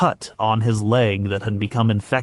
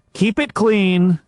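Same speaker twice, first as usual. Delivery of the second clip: much higher, slow, narrated healer's voice; healer's firm instruction; 10 semitones higher, 4 dB louder, slower than usual. A narrator's reading. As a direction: voice a healer giving careful orders, pitched up. Healer instructing the patient's wife.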